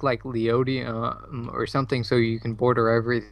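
choppy call audio dropping out; words breaking up over a bad connection; voice cutting out. Real, not acted. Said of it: "Your voice cut out".

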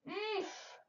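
high, soft "oomph"; small storybook grunt of distress; pained little cry. A narrator's reading. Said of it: "cried Cucumber".

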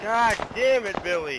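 high, loud, slow exasperated yell; angry outburst. Real, not acted. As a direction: snap at the teammate in frustration.

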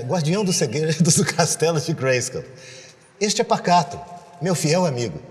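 heroic cartoon narration, lightly voiced; He-Man intro. Shown as a demonstration. He-Man's voice actor reciting the opening on request, heroic. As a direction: recite the Prince Adam opening like the dub. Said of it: "imitar alguma coisa do He-Man".

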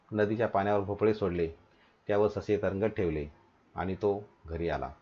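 measured storytelling in short phrases; story reading. Acted. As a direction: read a simple tale to pupils, phrase by phrase. Reads the story aloud.

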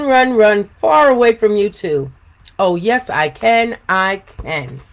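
cheeky taunting cookie; sing-song boastful taunt; gingerbread man. Acted. Gingerbread man's chant.

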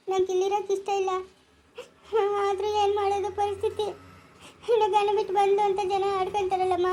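tearful complaint to mother. Acted. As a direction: speak through light crying. Acted tearful daughter confides in her mother. (ಅಳುತ್ತಾ ಹೇಳುವುದು)

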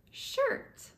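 whispered word. Shown as a demonstration. Naming clothes for toddler.

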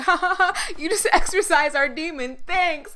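high-pitched imitation of relieved laughter; put-on ha-ha laugh, lifted voice; mock laughing. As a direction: act out customers chuckling their thanks. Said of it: "I hear them back there laughing like".

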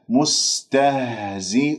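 long-held مستهزئون with the waw free of nasal sound; Quranic recitation. Shown as a demonstration. Tajweed teacher models the waw without ghunna, slow elongated recitation. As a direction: draw out مستهزئون slowly, pure oral long u before the noon. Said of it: "من غير أن أجعل غنة في الواو".

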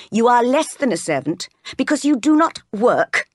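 a touch of haughty reproof; stern scolding. Acted. Miss Abbott putting Jane down, mildly scornful.

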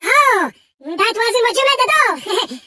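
unhinged, melodramatic game villain; theatrical villain. Acted. Mad villain Engine pleading with Crash for plutonium, melodramatic. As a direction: play a volatile mad villain, swinging between scheming and wailing. Same character voice.

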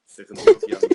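mock girly voice, very high and loud; high squeaky girl voice. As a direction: squeal it like a giddy girlfriend. Imitating Damla's squeaky reply.

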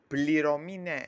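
loud, firm ruling; firm concession. Acted. Boss conceding pay in an argument, firmly. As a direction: lay it down loudly. Argument over paying the servant.

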